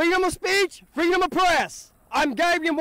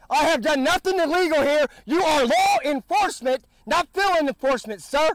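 loud sharp voice; 5 dB louder than usual. Real, not acted. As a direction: shout it at the officer. Shouting at trooper.

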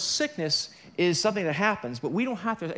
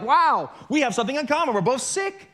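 higher, loud mock glee at being sick; mock excitement; 7 semitones higher, 4 dB louder than usual. Preacher mocking sick churchgoers, in high, loud mock glee. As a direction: imitate sick people thrilled to share an illness. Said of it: "And they're all excited, like".

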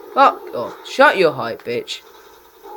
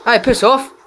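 furious bark, louder and higher; angry shout; 8 semitones higher, 6 dB louder than usual. Real, not acted. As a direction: yell it high and loud at the enemy. Gamer raging at opponent.

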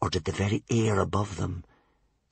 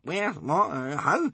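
mumbling; 8 semitones higher, slower than usual. A narrator's reading.

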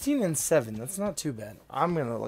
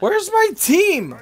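rowdy party animal; 8 dB louder, much slower than usual. Real, not acted. Drunk player lost teammates.

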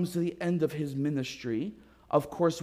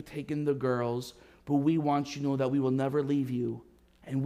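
lower, gentle, unhurried blessing; tender welcome; 4 semitones lower than usual. Retold or imitated. Church men welcome Bill home.

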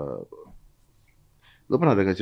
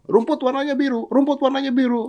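braying donkey shout. Acted. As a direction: yell it over and over like a stubborn donkey. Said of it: "keledai itu teriak-teriak". (keledai berteriak nyaring)

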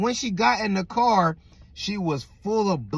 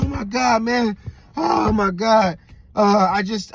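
freaking out; 3 semitones higher, 4 dB louder than usual. Retold or imitated. Coworker arriving late after a hospital rush, freaking out. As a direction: act a rattled man bursting in. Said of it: "he's, like, freaking out".

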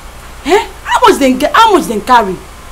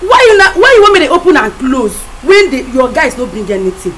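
angry outburst; 4 dB louder than usual. Acted. Adim angry at friend.

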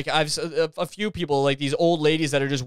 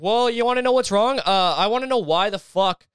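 higher-pitched, fed-up retort at the start; mock upset girlfriend; 3 semitones higher than usual. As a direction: play an exasperated girlfriend having it out. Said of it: "she's just all upset".

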